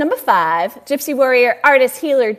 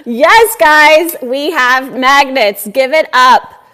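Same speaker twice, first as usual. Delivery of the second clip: excited hype; 5 dB louder, slower than usual. Real, not acted. Hyping the swag.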